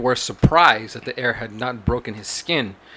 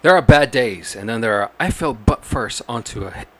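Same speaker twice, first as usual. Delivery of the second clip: newscaster voice. Pretend. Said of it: "a newscaster voice".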